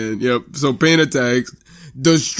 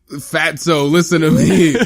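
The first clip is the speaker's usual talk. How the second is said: raised, insistent order; mock urgent mentor; 4 semitones higher, 4 dB louder than usual. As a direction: demand his attention, exasperated. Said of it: "And Kakashi's like".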